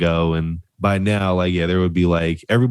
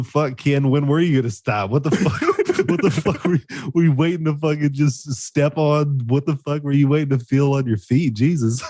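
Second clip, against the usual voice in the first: exasperated; 6 semitones higher than usual. Acted. Acted exasperated questioning of Ken.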